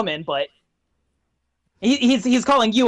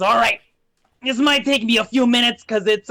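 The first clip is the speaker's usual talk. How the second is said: imp getting to work; 2 semitones higher than usual. Acted. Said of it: "and he goes".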